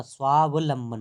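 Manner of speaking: स्वावलंबन with the first part drawn out as स्वाव; correct pronunciation. Shown as a demonstration. Teacher correcting a misspelling, careful corrected pronunciation. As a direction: stress the "वा-व" inside स्वावलंबन. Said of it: "होता है".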